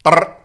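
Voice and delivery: loud buzzing lip trill; short rattle like a power drill; drill noise. Pretend. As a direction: mimic a scaffolder's drill. Drill imitation again.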